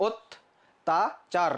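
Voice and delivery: অত্যাচার drawn out very slowly as "ottachar"; teacher sounding out অত্যাচার slowly; slow pronunciation demo. Shown as a demonstration. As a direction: stretch অত্যাচার slowly with an o at the start. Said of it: "চারও বলি নাই".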